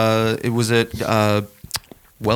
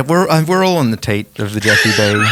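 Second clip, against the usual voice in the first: laughing; 4 dB louder than usual. Real, not acted. Laughing joke about Amazon.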